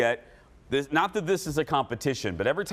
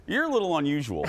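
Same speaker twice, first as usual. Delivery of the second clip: put-on Southern accent; faster than usual. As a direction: quote the great-uncle with a hint of Southern twang. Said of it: "He had that great Southern accent".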